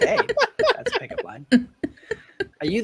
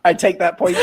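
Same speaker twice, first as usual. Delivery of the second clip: laughing; 10 dB louder than usual. Real, not acted. Cracking up at pickup line.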